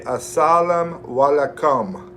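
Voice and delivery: Assalam walaikum said slowly, unsure; careful pronunciation. Shown as a demonstration. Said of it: "I hope I said that right".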